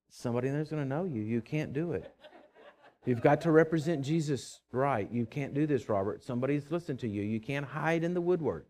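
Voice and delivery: self-warning. Retold or imitated. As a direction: quietly remind yourself to behave. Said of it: "I stop and say".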